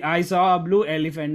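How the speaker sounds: "elephant" given the main weight; emphasis saved for "elephant"; stress on elephant. Shown as a demonstration. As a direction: lean on the word "elephant". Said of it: "Emphasis on elephant".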